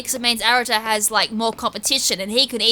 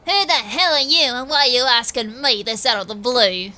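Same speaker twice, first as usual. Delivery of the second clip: nerdy voice. Acted. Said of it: "kind of give a nerdish voice".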